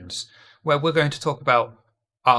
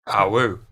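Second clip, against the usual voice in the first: howling like a wolf pup; 7 semitones lower than usual. Pretend. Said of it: "first time I've ever said that".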